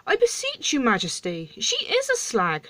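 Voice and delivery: very high-pitched, emphatic protest; pleading dwarf. Acted. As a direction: squeak out an insistent plea.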